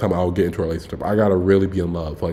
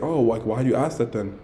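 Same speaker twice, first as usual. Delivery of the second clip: softer, mild retold question; non-aggressive question; 5 dB quieter than usual. Guy asking the girl why she asked, non-aggressive. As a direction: ask it gently, without confrontation. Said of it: "I don't say it aggressively".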